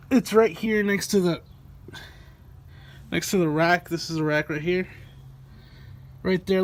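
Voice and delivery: strained, talking from under a car; lying under a car. Real, not acted. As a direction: speak on your back under a car. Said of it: "I'm under the car right now".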